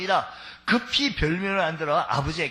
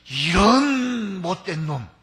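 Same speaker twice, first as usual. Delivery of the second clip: drawn-out louder snarl; slow angry curse; 5 dB louder, much slower than usual. Acted. Esau cursing his brother Jacob. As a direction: spit it slowly.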